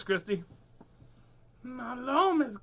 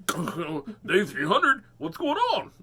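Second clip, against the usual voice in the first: cat voice; 4 semitones higher, 4 dB louder, much slower than usual. Pretend. Voicing the cat.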